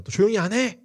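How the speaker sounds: loud, high mock scolding; acted browbeating. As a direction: bark it like a crowd silencing a beggar. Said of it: "너 겁박을 합니다". (크게 윽박지르는 흉내)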